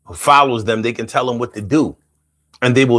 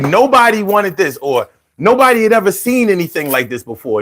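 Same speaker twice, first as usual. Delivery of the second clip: light Trump impression; 6 semitones higher than usual. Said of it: "he says things like".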